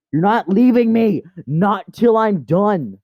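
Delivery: high, loud melodramatic protest; mock possessive shout. Owner stops the cat leaving, mock shouting. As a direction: yell it in play desperation, dragging the end.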